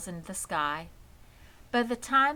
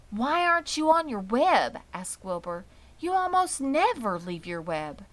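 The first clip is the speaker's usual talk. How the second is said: higher, louder worried calling; anxious pig; 5 semitones higher, 6 dB louder than usual. A narrator's reading. Wilbur calling for Charlotte in the dark, high and worried. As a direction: call out for a friend you can't see.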